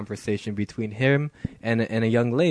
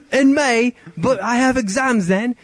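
put-on much higher, louder girlish voice; girl's voice; 10 semitones higher, 4 dB louder, slower than usual. Host reading the girl's texts in a high girl voice.

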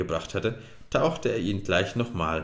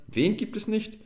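much higher, incredulous question; indignant cry; 14 semitones higher than usual. A narrator's reading. Little sprite challenges the man's denial, crying out high. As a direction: pipe up in high-pitched protest. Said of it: "rief der kleine Wassermann".

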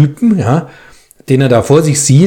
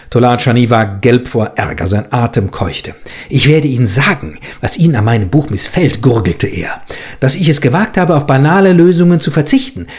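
reads the story aloud, lively voicing the quarrel; measured audiobook narration with acted dialogue. A narrator's reading. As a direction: tell it like a reader at a literary evening.

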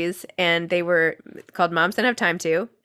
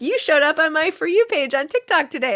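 put-on teen friend; 9 semitones higher, 4 dB louder than usual. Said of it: "his friend would be like".

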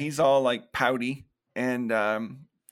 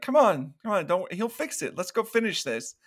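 retold coaxing; 5 semitones higher than usual. Bree coaxes angry Trent away.

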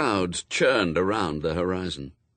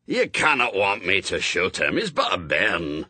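put-on Scottish accent; 4 dB louder than usual. A narrator's reading. Shadwell protests, Scots word bairn.

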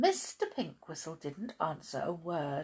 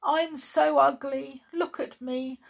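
higher, slow doleful dog voice; sad dog; 8 semitones higher, 5 dB louder, slower than usual. A narrator's reading. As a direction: lament slowly as a sorry little dog. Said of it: "said the dog sadly".

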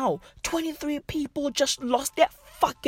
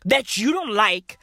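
mock motivational coach. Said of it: "sounding like a fucking motivational speaker".

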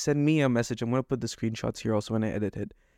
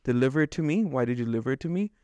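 fuming rant; faster than usual. Retold or imitated. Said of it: "And now I am fuming".

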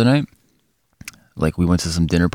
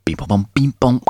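imitated beeps; 3 semitones higher than usual. Makes playful beeps after news question.

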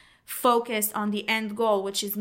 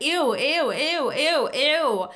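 repeated ew, higher and louder, grossed out; disgusted ew; 6 semitones higher, 5 dB louder, slower than usual. Retold or imitated. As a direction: squeal ew over and over in disgust. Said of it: "I was just like".

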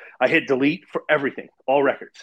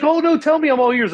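very high, loud mock-eager listener; squeaky exaggerated concern; prying amateur therapist; 13 semitones higher, 5 dB louder than usual. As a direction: imitate an over-keen therapist begging to hear it. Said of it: "He's trying to, like, Doctor Phil me".

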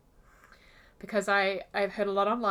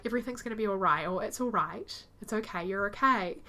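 calm reassurance; 2 semitones lower than usual. Retold or imitated. Calming her upset girlfriend Kathy, gently reassuring. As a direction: soothe her, keep it calm. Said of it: "you need to stay quite calm".

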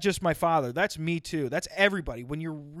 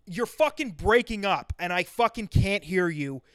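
raised-pitch cursing father, imitated; imagined angry dad; 3 semitones higher than usual. Dad wanting son to fix his phone, openly angry. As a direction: let the dad's irritation out, swear-stressed. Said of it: "which is what he wanted to do".

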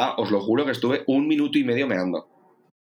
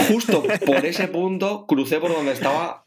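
slow, high words through real laughter; amused, chuckling through the line; laughing; 6 semitones higher, slower than usual. Real, not acted. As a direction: laugh it out as you tell it. Laughs while retelling.

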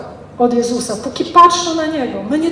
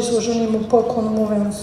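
usual speaking voice

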